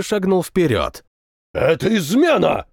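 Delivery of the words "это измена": accusing shout. Acted. Officer accuses general of treason.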